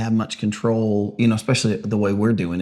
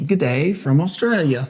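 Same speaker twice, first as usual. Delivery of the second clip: amateur attempt at an Aussie accent, pitched up; Australian accent; 4 semitones higher than usual. Co-host told to redo the greeting, Australian accent. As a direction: greet them in your best mock Australian. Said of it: "That was my best Australian accent".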